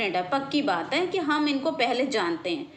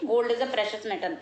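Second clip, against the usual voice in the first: slow example; 2 semitones lower, much slower than usual. Shown as a demonstration. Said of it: "जैसे हम gold के पहले नहीं लगाते हैं".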